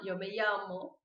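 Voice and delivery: llamo said as ya-mo, not lhamo; quiet correct model of llamo; calm correct demo. Shown as a demonstration. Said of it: "vocês querem falar llama".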